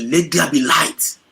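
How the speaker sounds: slow, high, loud proclamation; booming voice of God. Acted. Preacher voicing God's creation command, slow and booming.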